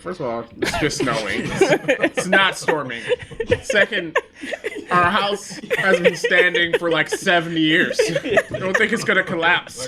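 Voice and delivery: explaining through laughter; laughing. Retold or imitated. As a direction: reassure the kid while laughing. Dad answering son, laughing.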